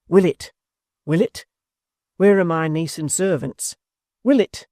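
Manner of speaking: a desperate, searching call for the landlord; distracted calling. A narrator's reading. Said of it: "Crying to him distractedly".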